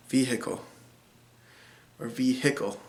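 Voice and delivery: "Vehicle" repeated softly as vee-hick-ul, h sounded; Iowa vehicle. Shown as a demonstration. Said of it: "in Iowa is pronounced".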